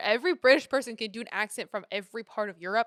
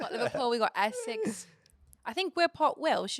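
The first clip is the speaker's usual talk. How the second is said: playful attempt at a British accent; 3 semitones higher than usual. Shown as a demonstration. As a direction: put on a British accent, half joking. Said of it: "hit me with your British accent".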